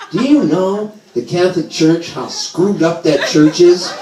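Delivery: hammed-up indignant mom; mom going off. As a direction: rant like an outraged mother, drawing it out. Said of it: "she starts going off on this".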